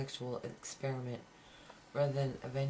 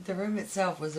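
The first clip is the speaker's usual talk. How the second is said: laughing through words; 5 semitones higher, 6 dB louder than usual. Real, not acted. Reader laughs restarting the line.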